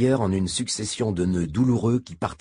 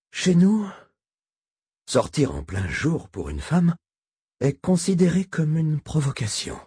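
put-on indignant old man, louder; 8 semitones higher, 3 dB louder than usual. A narrator's reading. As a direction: stress his people's law. Voices old Albin.

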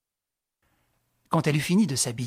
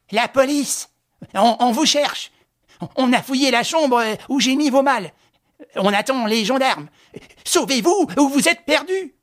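put-on high, loud, frantic old woman; panicked warning; 11 semitones higher, 8 dB louder than usual. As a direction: gasp it out in terror, stumbling. Innkeeper warns of police.

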